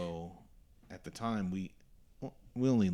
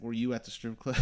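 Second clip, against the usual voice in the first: sergeant laughing; 6 semitones higher, 7 dB louder than usual. Retold or imitated. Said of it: "he's like".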